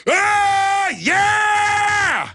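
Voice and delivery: crew answering the host's call for a war growl. Real, not acted. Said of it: "let me hear you".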